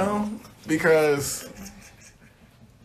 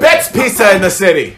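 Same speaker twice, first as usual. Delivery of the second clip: mock New Yorker boast; hammed-up New York accent; 5 dB louder than usual. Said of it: "I'm really trying to be a New Yorker".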